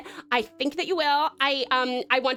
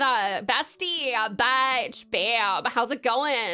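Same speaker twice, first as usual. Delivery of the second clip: put-on Valley Girl voice; 3 semitones lower than usual. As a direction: talk like a bored Valley Girl. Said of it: "five minutes of the Valley Girl voice".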